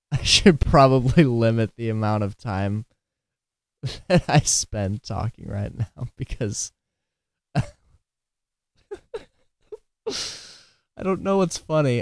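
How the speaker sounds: laughing while talking. Explaining to viewers that talking time should be limited, laughing while talking. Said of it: "I don't know why I'm laughing".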